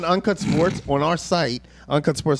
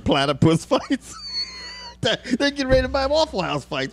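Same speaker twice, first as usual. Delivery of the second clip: excited riff; 9 semitones higher than usual. Real, not acted. Absurd escalating riff, shouting.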